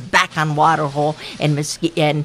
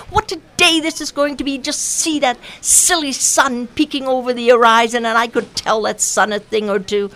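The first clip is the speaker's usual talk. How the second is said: boastful Mosquito; 6 semitones higher than usual. Acted. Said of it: "shouted Mosquito".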